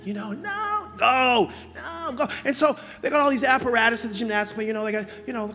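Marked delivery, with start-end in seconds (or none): 0.3-2.3 acted parent-child tussle. Acts child and father arguing.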